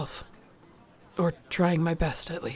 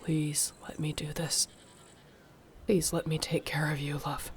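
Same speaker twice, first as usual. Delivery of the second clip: soft pleading; 6 dB quieter than usual. Acted. Pleading to tend the wounds.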